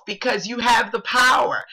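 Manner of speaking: choked up on the last word; teary. Real, not acted. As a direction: voice breaking with emotion. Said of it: "I'm getting all mushy".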